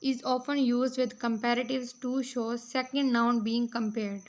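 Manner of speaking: reading out notes, very slow and deliberate; measured classroom read-aloud; slow dictation reading. Acted. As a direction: dictate each phrase slowly for students to copy. Reads English note slowly.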